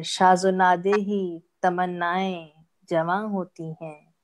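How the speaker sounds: measured, drawn-out verse delivery; mushaira-style poetry reading; ghazal recitation. Acted. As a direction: recite each half-line deliberately, pausing before the refrain.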